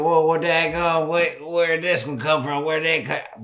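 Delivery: amazed exclaiming. Retold or imitated. Amazed at the deer racks.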